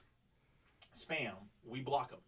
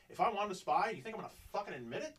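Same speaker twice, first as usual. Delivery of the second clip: furious; 7 semitones higher, faster than usual. Retold or imitated. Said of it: "I'm furious inside".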